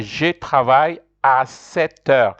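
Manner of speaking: slow, careful French pronunciation of "Je travaille à sept heures"; teacher modelling "Je travaille à sept heures" for learners; French model sentence. Shown as a demonstration. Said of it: "I say".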